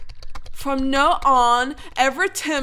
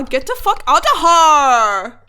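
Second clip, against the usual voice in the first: angry shout; 6 dB louder than usual. Acted. Author ranting at readers.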